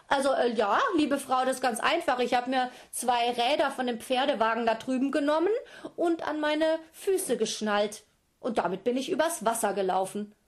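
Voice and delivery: high, loud, cheeky call with a laugh; Kelolan calling. Acted. Kelolan fools the giant mother from the far bank, loud and high. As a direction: call out a tricky lie, nearly laughing. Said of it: "Und Kelolan rief".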